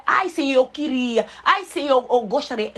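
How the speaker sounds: hesitant sighing "Ai, Senhor"; timid wishful plea. Shown as a demonstration. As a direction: ask as if you don't deserve it. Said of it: "Não é".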